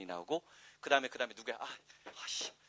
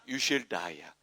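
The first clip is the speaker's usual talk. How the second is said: pitched-down English demo line; low actor's voice; 6 semitones lower, much slower than usual. Shown as a demonstration. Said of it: "저음으로 깔면". (저음으로 깔아서)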